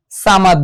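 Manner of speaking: "সামাদ" with a thin s and open "aa"; light-s "সামাদ"; common mispronunciation. Shown as a demonstration. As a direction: say "সামাদ" as saa-mad, the first vowel light and open. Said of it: "অনেকে কিন্তু এই ভুলটা করি".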